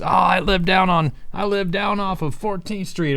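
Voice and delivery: high, slow mock woman voice; weird lady at the bank. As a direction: drawl it like a spaced-out stranger. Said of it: "she starts".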